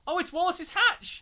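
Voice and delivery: high, slow exclamation of surprise; delighted discovery. Real, not acted. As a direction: exclaim as you suddenly spot something. Suddenly spots something in game.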